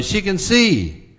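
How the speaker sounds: slow, high and loud with joy; joyful gasp. Acted. Mother realizes her daughter can see, slow and joyful. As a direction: stretch it out in happy disbelief. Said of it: "Mother gasped in joy".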